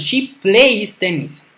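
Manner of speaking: slow, careful classroom reading of the example; deliberate teacher demo pace; slow model sentence. Shown as a demonstration. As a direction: read it out slowly so students can follow. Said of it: "teacher models example sentence".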